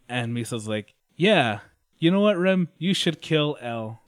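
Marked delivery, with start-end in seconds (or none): 1.2-4.0 put-on higher, louder eager girly voice; hammed-up eager girlfriend; eager agreement. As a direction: jump on the idea with glee.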